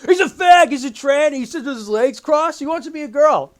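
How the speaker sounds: loud, high mock accusing; hammed-up indignant outburst; mocking outrage. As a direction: jeer it like a scandalized accuser. Mock-quotes the reviewer's accusations.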